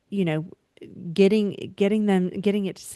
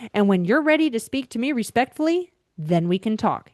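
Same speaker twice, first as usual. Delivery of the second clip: wrong sharp tone; 3 semitones higher than usual. Shown as a demonstration. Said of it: "It can't be".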